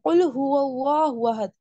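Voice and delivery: slow recitation, throaty heavy qaf in قل; correct Arabic pronunciation. Shown as a demonstration. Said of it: "تو صحیح تلفظ ہے پہلا".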